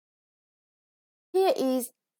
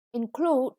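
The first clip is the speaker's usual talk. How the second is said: "Include" with the weight on "clude"; teacher model stressing "clude" in "Include"; stress on second syllable. Shown as a demonstration. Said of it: "the stress is on the second syllable".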